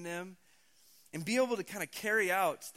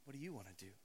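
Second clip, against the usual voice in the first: tender father God; 3 semitones higher, 5 dB louder than usual. Retold or imitated. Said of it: "God as your father turns to you and says".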